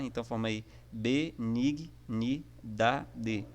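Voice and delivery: "be, nig, ni, da, de" spoken as separate syllables with small breaks; slow teacher's syllable split. Shown as a demonstration. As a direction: break benignidade into its syllables, one at a time. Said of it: "a gente encontra a sílaba B junto com nig".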